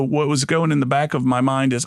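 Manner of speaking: usual speaking voice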